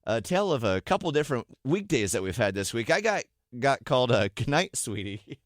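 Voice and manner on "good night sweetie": put-on slow, tiny little-girl goodnight; slow and sweet like a three-year-old; tiny toddler voice. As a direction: mimic a toddler tucked in bed. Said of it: "in her tiny little three-year-old voice".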